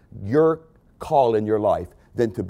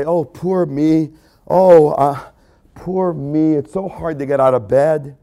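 mock self-pity. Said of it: "if we start to say".

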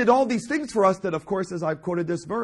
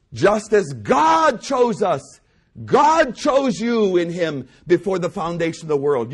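drawn-out, punched preaching; emphatic preaching; 5 dB louder, slower than usual. Real, not acted. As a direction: preach it with weight on God. Preaches at full force.

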